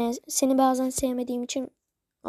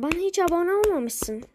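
"olmamışsın" ends in a higher, sharp fall; higher-pitched "olmamışsın"; 5 semitones higher than usual. Real, not acted. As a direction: say "Bana hiç abone olmamışsın" in a higher voice, as mock hurt. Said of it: "Ama aferin yani".

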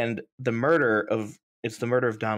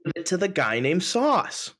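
mock announcer; 8 semitones higher, slower than usual. Echoes the verdict.

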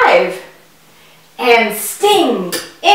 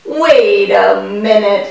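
ordinary talk

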